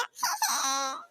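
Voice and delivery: low whimper; mock crying whimper; sulky sob. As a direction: sniffle like a spoilt child. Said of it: "അതിനാണോ മോള് കരയുന്നത്?".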